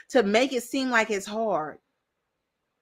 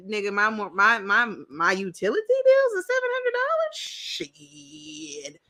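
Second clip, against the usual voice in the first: imitating a shocked man. Imitating townhouse guy.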